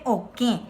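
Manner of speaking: "oke" with a nasalised last vowel; "oke", its final "e" made nasal. Shown as a demonstration. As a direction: end "oke" through the nose. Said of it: "cuando una letra tiene acento nasal".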